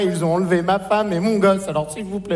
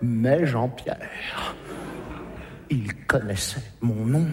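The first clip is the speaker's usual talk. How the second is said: plus grave et plus doux, lent; l'extraterrestre imite la mère; voix d'extraterrestre; 8 semitones lower, 7 dB quieter, slower than usual. Acted. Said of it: "il m'a dit". (voix grave et traînante de mère imitée)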